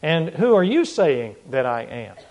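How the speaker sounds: slow, deliberate question leaning on "you"; emphatic question. Retold or imitated. Jesus putting the question to his disciples, emphatic. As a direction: press "you" slowly and pointedly. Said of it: "Jesus asks his disciples emphatically".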